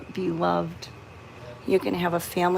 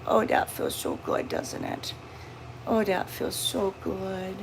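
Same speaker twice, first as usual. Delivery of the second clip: soothing; 4 dB quieter than usual. Real, not acted. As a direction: hush the frightened cat gently. Soothing cat while petting.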